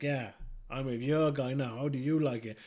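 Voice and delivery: smirking taunt. Retold or imitated. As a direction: rub it in with a smirk. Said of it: "sitting there smirking like".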